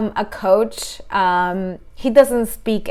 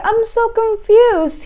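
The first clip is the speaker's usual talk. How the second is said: mock confused client; 11 semitones higher, 3 dB louder, slower than usual. Client's confused quote, high.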